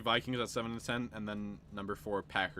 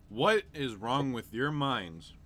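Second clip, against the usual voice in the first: mock outrage; 5 semitones higher, 7 dB louder, much slower than usual. Real, not acted. Mock outrage at friends' picks.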